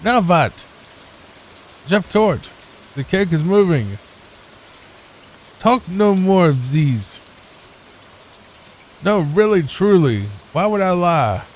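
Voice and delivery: hammy mock German chefs bickering; exasperated, badly faked German; German accent. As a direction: put on a cartoon German accent. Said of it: "It's W A S if it's German".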